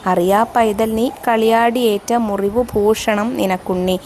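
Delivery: slow, measured verse reading with drawn-out vowels; poem recitation. Acted. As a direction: recite the verse slowly, lingering on phrase ends. Recites verse before explaining.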